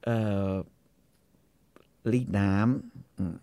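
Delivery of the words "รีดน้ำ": low, slow, soft delivery; understated hushed request; acting a discreet customer. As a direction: say it slowly and quietly, discreetly. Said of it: "เขาจะว่ายังไง?".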